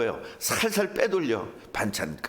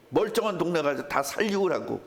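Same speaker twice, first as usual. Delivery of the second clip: ordinary delivery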